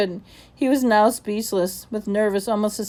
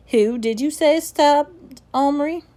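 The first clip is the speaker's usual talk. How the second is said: stern headmaster; 7 semitones higher, 4 dB louder, slower than usual. Acted. Headmaster questions slowly.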